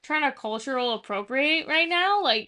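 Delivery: a sister teasing him for his put-on accent; teasing call-out. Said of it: "sometimes I'm almost like".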